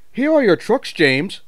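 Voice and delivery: high, fast teasing little engine; mock James with a grin; cheeky tank engine. A narrator's reading. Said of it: "ran off laughing rudely".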